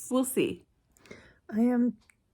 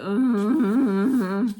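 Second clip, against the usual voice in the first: loud annoyed groan; disgusted ugh; 4 dB louder than usual. Retold or imitated. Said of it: "just making that noise in my head".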